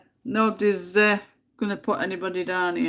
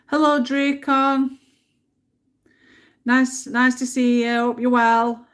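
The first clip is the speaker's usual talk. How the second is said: loud greeting; 7 semitones higher, 7 dB louder than usual. Real, not acted. Greeting a viewer in chat.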